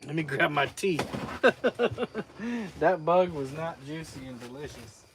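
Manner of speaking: laughing, throat still scratchy; talking after swallowing a bug; just swallowed a bug. Real, not acted. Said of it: "I ate a bug".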